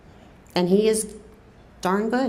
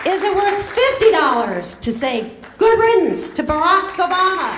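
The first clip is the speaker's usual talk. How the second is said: higher and louder, rising to a rally pitch; rousing crowd call; 7 semitones higher, 4 dB louder than usual. Real, not acted. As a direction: whip the crowd up with the ask. Escalating fundraising appeal.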